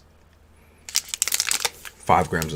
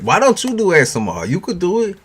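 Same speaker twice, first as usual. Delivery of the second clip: high excited voice; 12 semitones higher, 5 dB louder than usual. Retold or imitated. Reading chat request excitedly.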